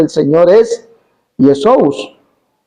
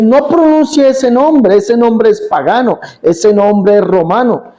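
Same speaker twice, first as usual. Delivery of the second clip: higher, slow mock woman forbidding; 4 semitones higher, slower than usual. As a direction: play her scandalized warning. La señora prohíbe el nombre. (imitando a la señora escandalizada)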